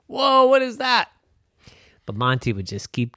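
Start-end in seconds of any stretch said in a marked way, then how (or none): 0.1-1.1 higher, amazed passerby; startled onlookers. Acted. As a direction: gasp at the strange sight. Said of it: "people would look up and say".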